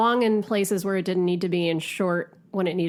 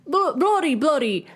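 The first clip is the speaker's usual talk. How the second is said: mock British riff; 4 semitones higher than usual. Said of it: "I'm trying to riff here".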